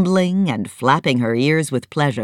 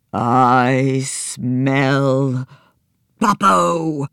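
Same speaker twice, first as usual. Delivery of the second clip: a touch of menace, dragged out; terrible voice; much slower than usual. Acted. Elephant smelling the villain, mild terrible voice. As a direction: sniff out the enemy. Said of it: "in a terrible voice".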